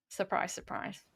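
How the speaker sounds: usual speaking voice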